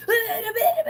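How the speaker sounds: high, loud imitated ranting grunts; hammed-up angry noises; mock angry grunts. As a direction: mimic dad's huffing yells. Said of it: "he's, like, yelling at me".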